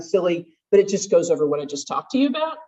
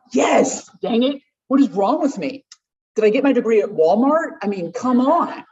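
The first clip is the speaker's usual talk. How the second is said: frustrated self-talk; 3 semitones higher, 3 dB louder than usual. Retold or imitated. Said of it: "I can tell you what I would think".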